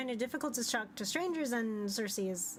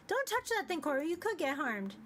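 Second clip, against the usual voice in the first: character warning; 5 semitones higher than usual. Acted. Warning Cora away from creature.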